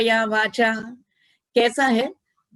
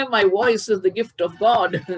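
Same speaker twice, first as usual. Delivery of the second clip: quoting a singer; much slower than usual. Retold or imitated. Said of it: "एक गायिका बोलती हैं".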